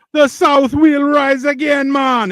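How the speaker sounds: high, drawn-out bad Southern accent; botched Southern accent. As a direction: do a terrible Southern accent that drifts toward Jamaican. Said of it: "It very much reminded me of".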